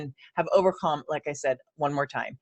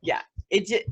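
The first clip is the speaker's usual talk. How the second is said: stammering; 5 dB quieter than usual. Real, not acted. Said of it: "I'm stammering again".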